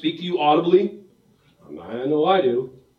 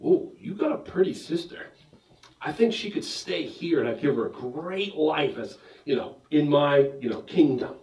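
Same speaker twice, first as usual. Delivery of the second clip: leering king; 2 semitones lower, 7 dB quieter than usual. Retold or imitated. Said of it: "the king, who's not blind, was like".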